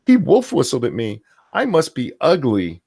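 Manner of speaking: mocking, overemotional lament; mock distress. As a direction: overplay being hurt by it. Mocks an overly emotional woman.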